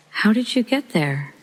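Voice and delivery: high, startled question to her daughter; shocked question. Retold or imitated. Mother asking her daughter, startled and high. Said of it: "I was so shocked".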